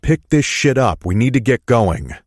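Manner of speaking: angry snap. A narrator's reading. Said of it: "I grow angry".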